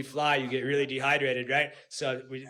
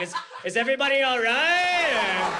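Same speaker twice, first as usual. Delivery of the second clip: innocent question; 7 semitones higher than usual. Retold or imitated. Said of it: "I'm like".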